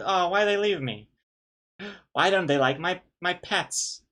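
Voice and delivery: high, plaintive mock bewilderment; mock wounded complaint. Cat botherer wondering why the cats leave, high mock hurt. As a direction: whine it like a rejected pet owner, playfully.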